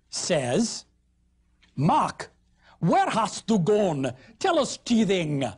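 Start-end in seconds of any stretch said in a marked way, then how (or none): 1.7-5.4 put-on slow, old Yorkshire shepherd reading; Northern Middle English. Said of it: "They're talking beautiful northern Middle English".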